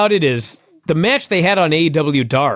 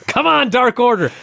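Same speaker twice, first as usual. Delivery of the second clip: milder mock cheering yell, raised pitch; Chris Jericho; 7 semitones higher than usual. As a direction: imitate a fan's scream at half strength. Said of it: "and he screams".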